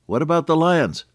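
put-on high-pitched anxious small child; little boy. Little boy asking his sister about lions, worried. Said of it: "the little boy said".

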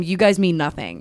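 cool, offhand and level; calm and casual. Retold or imitated. Rain calmly telling the housemates they mean nothing. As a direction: brush them off calmly, no heat. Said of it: "calm and casual just tells them".

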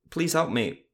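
jerky unnatural voice. A narrator's reading. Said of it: "off, somewhat jerky".

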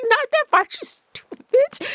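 very high, hammed-up scolding; mock angry boyfriend. Boyfriend snapping at her mid-chase, very high mock scolding. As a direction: snap it at her, mocking his impatience. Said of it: "He was like".

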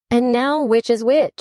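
a hint of puzzled Alice; talking to herself. A narrator's reading. Alice with mushroom bits in each hand, talking to herself. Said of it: "she said to herself".

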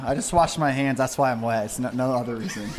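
bathroom echo; talking in a tiled bathroom. Real, not acted. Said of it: "we're in the bathroom right now".

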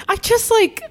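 very high, moved voice; really moved, pitch way up; touched, near tears. Real, not acted. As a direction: search for words while overcome. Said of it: "That makes me wanna cry".

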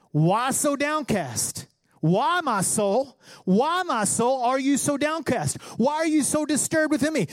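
slow, drawn-out questions to your own soul, rising in pitch; preacher voicing an anguished psalm; pleading self-questioning. Reads psalm as self-exhortation.

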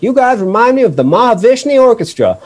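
high, hammed-up redneck voice with a laugh; mock redneck fan. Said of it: "be like".

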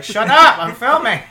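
sudden loud shout to shut him up; mock yell. Yelling at the caged brother to shut up while filming, loud mock shout. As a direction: bark it out mid-recording.

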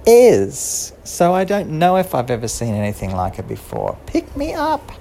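a little mouse still pleading; squeaky mouse. Acted. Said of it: "And Mouse said".

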